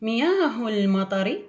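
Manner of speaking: مياه المطر read slowly and clearly; slow, careful read-aloud for children; teacher reading slowly to the class; slow model reading. Shown as a demonstration. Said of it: "الجملة الثانية".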